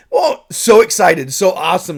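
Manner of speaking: high, loud, gushing with glee; gushing kid excitement. Retold or imitated. Remembering first seeing the film, high excited gushing. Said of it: "just being like".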